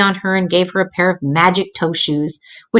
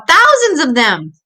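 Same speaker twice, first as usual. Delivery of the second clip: slow, raised frightened wail; 7 semitones higher than usual. Acted. Little sister describing her nightmare, wailing. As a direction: keep the terror going. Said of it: "she wailed".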